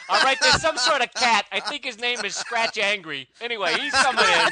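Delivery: mock cabbie with a New York accent. Hired New York cabbie describing comic characters, put-on New York accent. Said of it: "some cabbie from New York".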